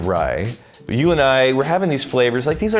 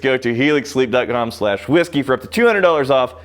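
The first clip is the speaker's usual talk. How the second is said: ad read; 2 semitones higher than usual. Acted. Closing ad call to action.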